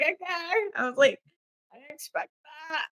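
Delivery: squeaky, drawn-out mock surprise; high mock surprise. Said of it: "I was like".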